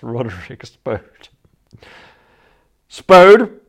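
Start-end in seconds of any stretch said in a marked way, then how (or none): 2.9-3.6 loud sharp call, pitched up; sharp commanding shout; sharp cry. Acted. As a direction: snap his name out to stop him. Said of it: "I cried sharply".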